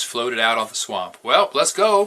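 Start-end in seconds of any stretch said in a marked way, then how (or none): 1.2-2.1 can't wait to get moving; a lightly voiced eager father; eagerly. A narrator's reading. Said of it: "Papa said eagerly".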